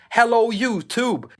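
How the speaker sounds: high, sing-song Göteborg Swedish accent. Shown as a demonstration. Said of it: "more like this".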